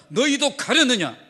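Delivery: the pastor puts Jesus' question to his listeners, slow and pressing. Acted. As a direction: ask it straight at the congregation. Jesus' question put to the congregation.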